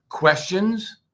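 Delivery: questioning upward tune; rising questions. Shown as a demonstration. Teacher demos a questioning rise. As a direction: ask it with a rising lilt. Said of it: "and let's review".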